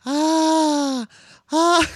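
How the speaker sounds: high, loud mock monster growl; hammed-up cartoon monster cry; snarling doghouse. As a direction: roar like a toothy hallucinated doghouse. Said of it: "sharp teeth going".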